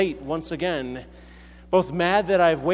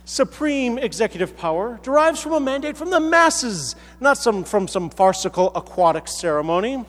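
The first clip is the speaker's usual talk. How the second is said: higher-pitched comic argument; protesting character; 5 semitones higher than usual. Acted. A subject rebuts King Arthur's claim, higher and mock-indignant. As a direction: argue back with rising, mock indignation. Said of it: "the character then responds".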